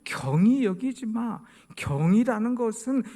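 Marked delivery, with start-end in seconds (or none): 0.0-1.4 scripture reading. Acted. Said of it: "scripture reading".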